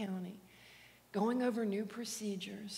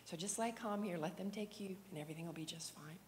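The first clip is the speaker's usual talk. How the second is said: whisper; 5 dB quieter, faster than usual. Retold or imitated. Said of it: "I just whispered into his ear".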